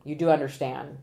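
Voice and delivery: firm, falling delivery; authoritative voice. Shown as a demonstration. Consultant showing a mistimed voir dire opening, firm authority. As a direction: put it to them with authority. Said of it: "with the authoritative voice pattern".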